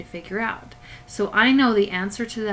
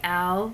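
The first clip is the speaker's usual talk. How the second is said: "algebra" with each syllable hit: AL-GE-BRA; syllables emphasized; faster than usual. Shown as a demonstration. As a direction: punch every syllable of "algebra". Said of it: "say each syllable part, really with lots of emphasis".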